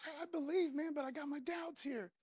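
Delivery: soft, halting confession; understated, intimate admission; brutally honest. Acted. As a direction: admit the doubt quietly, voice sinking. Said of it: "brutally honest to Jesus Christ".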